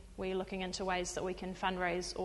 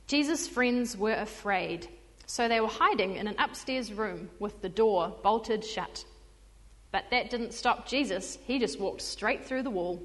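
put-on reading a story aloud to kids; lively storybook reading; storytelling voice. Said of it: "in my best storytelling voice".

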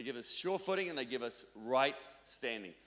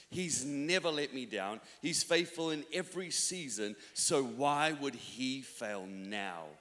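lyric recitation; 2 semitones lower than usual. Acted. Recites worship song lyrics.

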